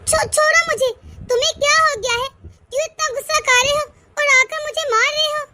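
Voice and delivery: ऊँची, तेज़ घबराई आवाज़ में छोड़ो कहना; मार से बचने की घबराई पुकार; डरी हुई चीख. Acted. पति मार रहा, पत्नी छुड़ाती. (पति से छुड़ाते हुए घबराकर ऊँची आवाज़ में)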